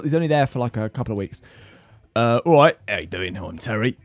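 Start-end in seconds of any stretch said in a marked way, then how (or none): 2.2-4.0 a hint of a Yorkshire accent on "all right"; Yorkshire Terry. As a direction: play gruff Yorkshire Terry, lightly. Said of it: "give us a little Terry".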